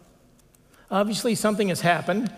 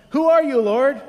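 much higher and louder, a desperate call upward; blinded and terrified, calling to heaven; frightened cry; 6 semitones higher, 6 dB louder than usual. Retold or imitated. Saul on the ground to the heavenly voice, frightened cry.

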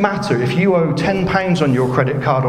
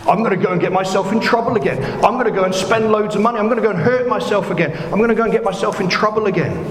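higher, faster, giddy mock boasting; mock reckless glee; 5 semitones higher, faster than usual. Preacher mimics a careless person, giddy and fast. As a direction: rattle it off like a carefree spender. Mocking a reckless forgiven debtor.

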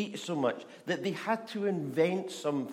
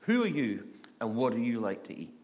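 lightly voiced frog; 2 semitones lower than usual. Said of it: "it says".

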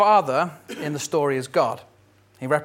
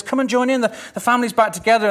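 pleading father; 8 semitones higher, 5 dB louder, much faster than usual. Acted. Father pleads with older son.

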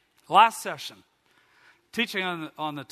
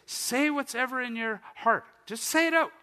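urging encouragement; 7 semitones higher, 3 dB louder than usual. Retold or imitated. Altar helper urges him to speak out, high and insistent. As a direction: play an over-eager altar helper. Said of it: "this guy would say".

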